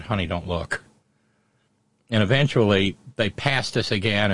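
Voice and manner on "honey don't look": hushed warning. Retold or imitated. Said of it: "looked over at my daughter-in-law and said".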